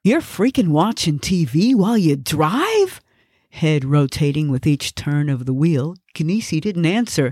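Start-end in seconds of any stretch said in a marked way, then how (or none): 0.0-3.0 higher-pitched disbelief; mildly alarmed passenger scolding a driver; incredulous scolding. Acted.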